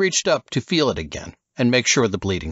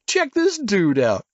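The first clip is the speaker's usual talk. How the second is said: high, lazy surfer-dude voice; stoned surfer dude; 12 semitones higher than usual. Acted. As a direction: play the bloodshot California surfer. Narrator voices surfer Casey.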